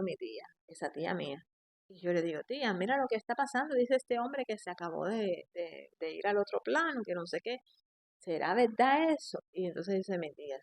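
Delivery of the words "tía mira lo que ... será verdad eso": higher, faster, urgent plea to the aunt; anxious pleading. Retold or imitated. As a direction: rush the question out, worried. Asks aunt anxiously in dream. (súplica urgente y ansiosa, más aguda y rápida)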